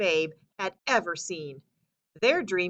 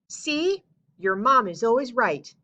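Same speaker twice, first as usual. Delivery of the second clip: proud; 4 semitones higher, 6 dB louder than usual. Acted. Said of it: "Paul's mom said proudly".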